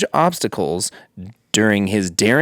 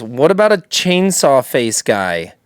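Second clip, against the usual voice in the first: put-on Japanese accent. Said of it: "but in a Japanese accent".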